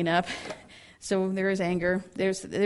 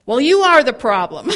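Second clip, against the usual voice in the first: laughing retort; 4 semitones higher, 11 dB louder than usual. Retold or imitated. Wife's retort in story.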